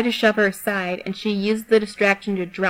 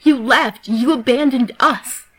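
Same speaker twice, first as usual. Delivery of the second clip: loud, higher accusing outburst; raised voice; 4 semitones higher, 5 dB louder, slower than usual. Acted. Pinned Yan yells her betrayal at Skidder, loudly. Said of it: "Yan raised her voice".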